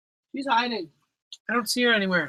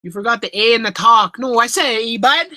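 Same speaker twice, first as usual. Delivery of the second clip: higher, put-on Canadian accent; 4 semitones higher, 5 dB louder than usual. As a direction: push the mock Canadian accent, rising on "bud". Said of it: "Anybody meets a Canadian A".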